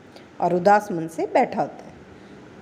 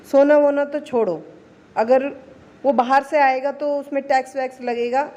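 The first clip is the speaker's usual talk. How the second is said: put-on young daughter-in-law; 5 semitones higher than usual. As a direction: pitch it up and talk her way around it. Youngest daughter-in-law gives clever advice. (ऊँची, तेज़ आवाज़ में चतुर छोटी बहू)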